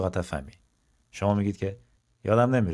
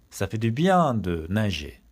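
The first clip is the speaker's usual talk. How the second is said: slow, deliberate French model; slow model sentence; much slower than usual. Shown as a demonstration. Teacher slowly gives the swimming example to students. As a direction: drag each word for learners.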